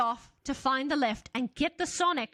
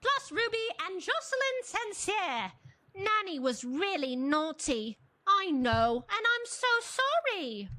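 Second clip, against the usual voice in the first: raised-pitch mock announcement; playful announcer voice; 6 semitones higher than usual. Narrator voices the Doctor addressing the babies, raised and playful. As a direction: call the crew like a cheery captain.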